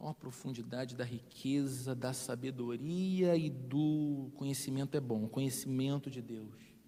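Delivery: very low, bored, half-asleep, yawning read. Picturing Paul writing this line while yawning: bored, yawning reading. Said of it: "Paulo escrevendo isso aqui, bocejando. Olha".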